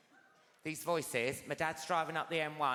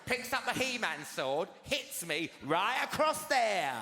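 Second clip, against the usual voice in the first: ordinary talk, nothing marked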